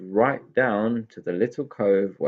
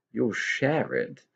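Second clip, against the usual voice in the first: indignant; 3 semitones higher, slower than usual. Acted. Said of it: "said Tigger indignantly".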